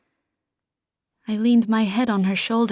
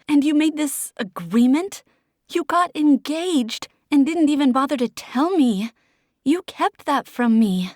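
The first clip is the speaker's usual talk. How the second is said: higher and louder, hurt fury; angry outburst; 6 semitones higher, 4 dB louder than usual. Acted. Desi confronting Oliver in a heated fight, higher and louder. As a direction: fling the question back at him.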